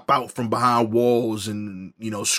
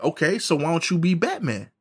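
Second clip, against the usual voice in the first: imitating suggesting dad; 6 semitones higher than usual. Dad pitches a solution to son.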